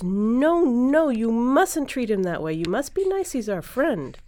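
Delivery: high, loud, stretched "no, no"; pleading scolding. Acted. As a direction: tell off a naughty pet, dismayed. Boy scolds the frog again.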